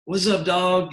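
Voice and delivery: high-pitched catchphrase impression; a music judge. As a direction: imitate his high-voiced greeting shtick. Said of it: "That's how he talks".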